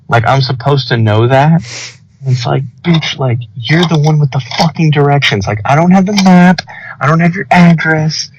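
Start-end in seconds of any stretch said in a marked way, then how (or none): 2.8-8.3 mock angry rant. Angry retold rant at passenger.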